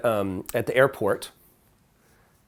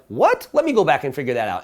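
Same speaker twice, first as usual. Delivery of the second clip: surprised waiter. Retold or imitated. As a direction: jump up in surprise, then hurry. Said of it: "he was like".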